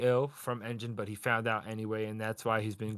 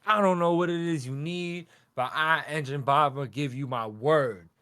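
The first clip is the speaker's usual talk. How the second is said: mild shonen-hero vow, a bit louder; full shonen mode; 2 semitones higher, 4 dB louder than usual. Retold or imitated. Retelling a hero pledging his word, lightly hammed-up shonen declaration. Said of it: "goes into full shonen mode".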